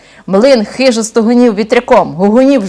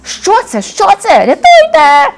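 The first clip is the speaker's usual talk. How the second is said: високо й гучно верещить; кричи від жаху; переляканий вереск; 11 semitones higher, 4 dB louder, slower than usual. Acted. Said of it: "заверещали розбійники". (розбійники верещать від страху)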